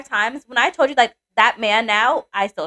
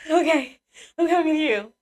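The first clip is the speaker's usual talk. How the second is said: high, small mock-obedient voice; meek retold surrender; 6 semitones higher than usual. Answering her work husband's order, meek. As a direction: act out giving in at once, pitched up.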